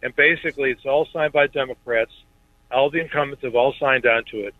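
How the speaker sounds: speakerphone from a car; chatting in a car. Real, not acted. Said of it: "you sound like you're in the car".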